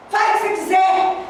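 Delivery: high, irritated snap of dismissal; angry outburst. Acted. Wife snapping at her husband, acted anger. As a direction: throw it out high and cross. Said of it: "a gente fica com raiva".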